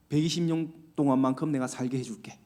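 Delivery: soft, low tender promise; gentle promise. Retold or imitated. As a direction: reassure them gently. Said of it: "이렇게 말하는 거예요".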